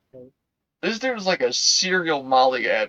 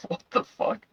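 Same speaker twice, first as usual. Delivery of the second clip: shocked high exclamation; 9 semitones higher, 5 dB quieter than usual. Retold or imitated. Group's shocked reaction, retold.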